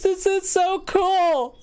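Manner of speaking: very high, drawn-out delight; excited call. Acted. Woman hearing a reply through the stone, excited. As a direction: squeal it slowly, thrilled with a new gadget.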